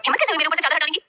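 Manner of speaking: high, indignant snap, just woken; mock outrage at being uncovered; angry. Ishki snapping at whoever pulled her sheet, angry and high. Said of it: "गुस्से से उठकर".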